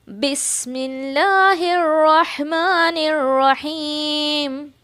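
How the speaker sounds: slow, measured tajweed recitation of the basmala; Quran recitation. Shown as a demonstration. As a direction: chant it evenly so students can follow. Teacher recites basmala as model.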